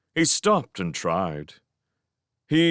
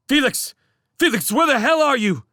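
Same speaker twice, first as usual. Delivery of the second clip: calling out; 5 dB louder than usual. Acted. Shouting across collapsed cavern.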